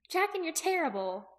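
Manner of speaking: put-on high, teasing girl's voice; amused Aki. A narrator's reading. Aki relaxing as Jaqen tells jokes, high amused voice. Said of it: "Aki relaxed into a giggle".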